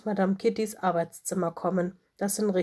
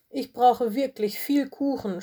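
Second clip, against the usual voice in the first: stöhnend; 4 semitones higher than usual. A narrator's reading. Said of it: "stöhnte Lola".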